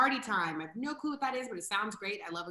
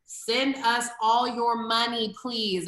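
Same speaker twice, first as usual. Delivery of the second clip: pleading donation plea; 3 semitones higher, 7 dB louder, slower than usual. Real, not acted. Begging for donations.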